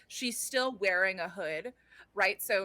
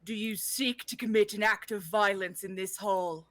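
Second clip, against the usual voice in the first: deep booming voice. Acted. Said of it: "she says in this deep, booming voice".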